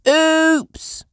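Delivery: high startled breathy oops; Peppa's oops. A narrator's reading. Peppa slipping from the tree, high startled oops. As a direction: yelp as you slip. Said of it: "cries Peppa".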